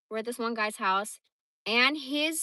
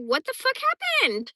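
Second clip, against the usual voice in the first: lightly voiced alarmed dog, raised pitch; dog's imagined voice; 6 dB louder than usual. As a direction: blurt it as the baffled dog, a bit louder. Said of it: "He's like".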